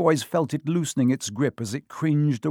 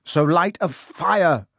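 strained, slow, higher voice; choked; 5 semitones higher, 5 dB louder, slower than usual. A narrator's reading. Harry urging Hermione while strangled, choking. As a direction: force the words out while being choked. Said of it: "Harry choked".

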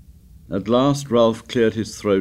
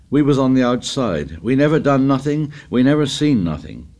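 high, eager self-convincing; eager insistence; 6 semitones higher, 3 dB louder than usual. A narrator's reading. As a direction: insist on the alibi in a raised voice. Piggy eagerly builds their alibi.

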